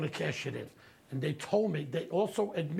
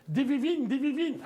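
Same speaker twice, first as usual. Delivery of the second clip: eager shopkeeper; 7 semitones higher, 3 dB louder than usual. Retold or imitated. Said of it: "he said".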